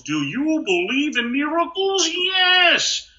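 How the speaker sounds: high excited Al Michaels. Retold or imitated. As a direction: hit the famous call at full pitch. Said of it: "turn it into Al Michaels".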